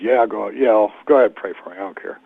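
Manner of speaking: fast, careless brush-off, trailing away; dismissive street guy. Retold or imitated. Man on the street brushing off the preacher's offer to pray, careless and fast. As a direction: wave the preacher off like it means nothing.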